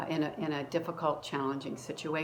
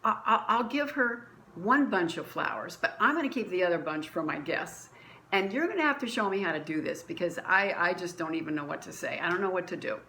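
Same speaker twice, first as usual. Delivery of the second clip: exasperated. Retold or imitated. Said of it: "I get really exasperated".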